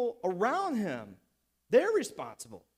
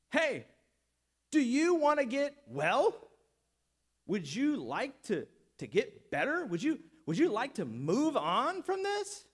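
mocking question; 3 semitones higher than usual. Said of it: "What a dumb question".

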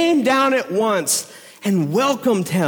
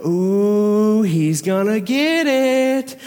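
gloating townsfolk; much slower than usual. Retold or imitated. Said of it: "people in town were going".

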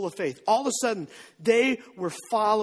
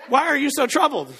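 line broken by laughter; can't hold back a giggle; laughing; 4 semitones higher, 4 dB louder than usual. Retold or imitated. Preacher quoting Jesus, laughing through it. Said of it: "don't make me laugh".

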